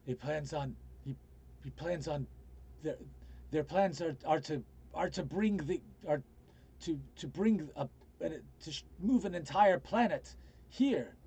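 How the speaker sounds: rescued man, urgent. Acted. Man warns of a planet brought to Terra, mildly agitated. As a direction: stammer out the warning, restarting as you go.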